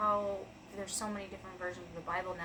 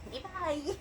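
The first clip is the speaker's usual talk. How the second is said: calling goodbye; 8 semitones higher than usual. Real, not acted. Calling goodbye to someone offstage.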